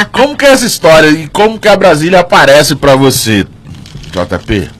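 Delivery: talking with a mouthful; words round a bite of food; chewing while talking. Real, not acted. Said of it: "Tamo mastigando e falando".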